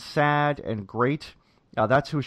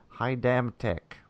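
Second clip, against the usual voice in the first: slow, softer echo of a character's phrase; quoting Vito; 6 dB quieter, slower than usual. Retold or imitated. Podcast host repeating the restaurant owner's phrase, slow imitation. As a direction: lightly imitate him, drawn out and quiet. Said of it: "as he put it".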